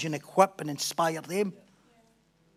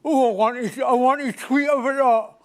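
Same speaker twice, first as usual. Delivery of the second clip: mock eager; 10 semitones higher, 12 dB louder, slower than usual. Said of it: "I was like".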